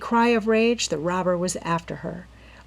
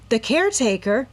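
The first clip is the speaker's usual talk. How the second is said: higher, rising in alarm; Nancy horrified about the caretaker; horrified gasp; 5 semitones higher, 5 dB louder than usual. A narrator's reading. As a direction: gasp it in horror. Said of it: "Nancy gasped in horror".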